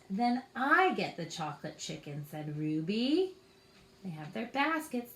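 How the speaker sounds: put-on reading a picture book to children; story narration. A narrator's reading. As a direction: tell it gently to little ones. Reads a picture book aloud.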